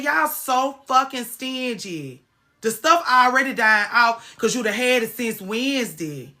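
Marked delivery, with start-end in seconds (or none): 0.0-2.2 slow scolding. Retold or imitated. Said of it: "I said".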